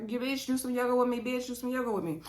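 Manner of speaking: half-formed imitation of her housemate's accent; attempted Jocelyn accent. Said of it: "I ain't got Jocelyn's accent together yet".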